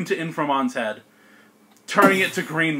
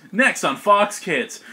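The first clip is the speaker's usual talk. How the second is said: slow promo read through laughter; mock TV announcer; 4 semitones higher, 3 dB louder, slower than usual. Game master parodying a kids' channel promo, laughing mock announcer. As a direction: announce it slowly, starting to crack up.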